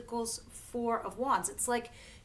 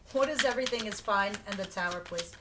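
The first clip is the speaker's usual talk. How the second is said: ordinary talk, nothing marked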